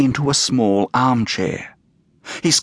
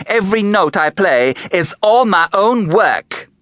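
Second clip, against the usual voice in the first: sassy, indignant performer voice, rising higher; brassy showgirl; 4 semitones higher than usual. Acted. Fifi defending her act to the visitor, brassy and indignant. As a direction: bristle and brag like a vaudeville star.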